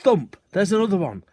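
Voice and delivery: loud, high, thrilled; excited cry. A narrator's reading. Boy hears another pheasant fall, cries out excitedly. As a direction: shout it as another bird thuds down. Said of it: "I cried".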